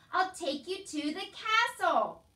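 high, loud, stretched-out shouting; slow shout. A narrator's reading. Soldier making deaf Meg understand, shouting slowly. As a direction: shout each word to get through. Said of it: "shouted the soldier".

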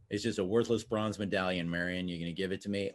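put-on a teenager copying Harrison Ford's low voice; Harrison Ford impression. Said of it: "is Harrison Ford".

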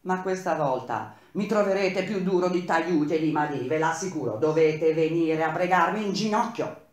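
defiant boss, loud and cutting; angry threat. Acted. Engineer threatens the strikers.

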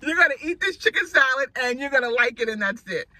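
loud, high imitation of a strict son; mock bossy order. Son ordering mom to eat her salad, mock stern. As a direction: lay down the law, hammed-up and forceful.

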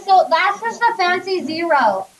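talking around a cough drop; mouth full. Real, not acted. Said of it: "I have a cough drop in my mouth".

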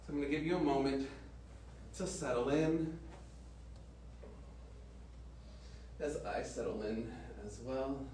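soft, settling yoga-teacher voice; yoga guidance. Real, not acted. Yoga teacher letting class settle in, soft guidance. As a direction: ease the class gently onto their mats, softly.

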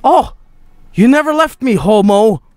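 high, hammed-up delighted cry; overjoyed reunion. Player finding a companion who stayed, overjoyed reunion. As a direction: cry out high in playful joy.

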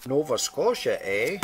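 lightly put-on Canadian accent; bad Canadian accent. Vlogger showing where a letter came from in a mock Canadian accent. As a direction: do a badly faked Canadian accent. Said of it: "that's my bad Canadian accent".

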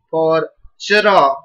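chra, the ch half and the ra full; chra sound. Shown as a demonstration. Teacher modelling chra for the class, blended. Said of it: "just write cha".

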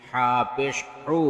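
final "হু" cut short; quick short vowel. Shown as a demonstration. Teacher demonstrating normal pesh, short "হু". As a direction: keep the last "হু" brief, not held. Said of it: "তাড়াতাড়ি করতে হয়".

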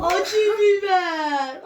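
loud drawn-out yell. Real, not acted. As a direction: shout it slowly at full voice. Shouting about hot pepper penalty. (yavaş ve yüksek sesle bağırış)

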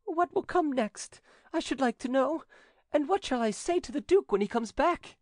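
high woman's voice, fearful; frightened widow. A narrator's reading. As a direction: fret in fright.

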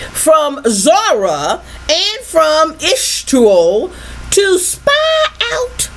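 slow, drawn-out preacher's reading; scripture reading. Acted. Preacher reads verse to congregation, slow scripture reading. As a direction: stretch the key words as you read.

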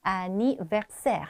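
anniversaire slowly, clear open e in both last syllables; model pronunciation. Shown as a demonstration. Teacher sums up the word for students, slow model pronunciation. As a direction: sound out anniversaire carefully. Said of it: "이렇게 발음했고요".

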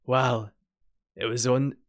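low-pitched character voice; very deep voice. Acted. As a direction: drop into a deep, low register. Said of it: "she just gave her a very deep voice".

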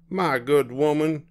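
high, huffy address; irritated complaint. A narrator's reading. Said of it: "glared at Mama and said".

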